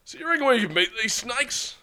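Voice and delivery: high-pitched character line, first attempt. Hernandez asking his leader about meeting the snakes, high character voice. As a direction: pitch the question well up. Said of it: "that's Hernandez that said that".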